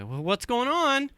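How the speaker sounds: high-pitched mock calling-out; retold yell. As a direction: raise the pitch to carry, not a full shout. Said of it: "I yelled down the hallway".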